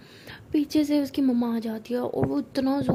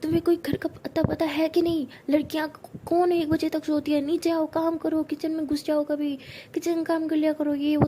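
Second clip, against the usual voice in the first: higher, mock-angry scolding; mother yelling at her daughter for sleeping till one, scolding; 4 semitones higher than usual. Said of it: "वो बहुत चिल्ला रही होती है".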